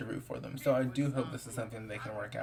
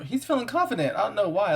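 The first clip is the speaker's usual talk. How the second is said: loud and higher, amused; laughing amazement; 8 semitones higher, 8 dB louder than usual. Real, not acted. Gamer laughs at a cocky character, loud and higher.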